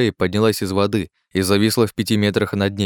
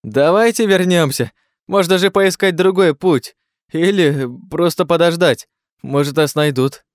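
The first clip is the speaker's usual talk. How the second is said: high, loud, slow pleading; bleating, cowardly Klazen; 9 semitones higher, 4 dB louder than usual. A narrator's reading. Klazen begs the group to turn back, bleating. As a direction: bleat it out in timid panic. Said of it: "заблеял Клазен".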